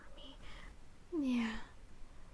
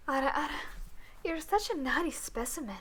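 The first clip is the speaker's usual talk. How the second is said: teasing; 3 semitones higher, 3 dB louder than usual. Acted. Teasing scolding roleplay.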